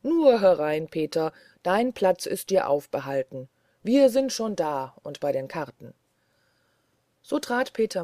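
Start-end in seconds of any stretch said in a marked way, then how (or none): 0.0-5.9 a touch of a deep, louder call from the inn. Acted. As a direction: call Peter in as a gruff gambler. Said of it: "eine tiefe Stimme rief". (leicht tiefe, rufende Stimme)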